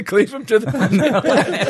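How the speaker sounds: slow, through laughter; laughing. Acted. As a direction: laugh while saying it.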